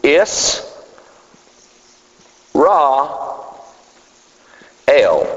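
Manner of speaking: Israel split into Is, Ra, El with long pauses; broken into three spoken parts; syllable by syllable. Shown as a demonstration. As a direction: say Is, then Ra, then El as separate words. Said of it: "these three categories would be".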